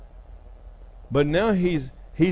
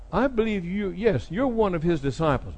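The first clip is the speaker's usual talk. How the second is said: higher, insistent accusation; accusing bystander; 5 semitones higher than usual. Retold or imitated. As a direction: point him out, voice pitched up. Bystander accuses Peter in retold story.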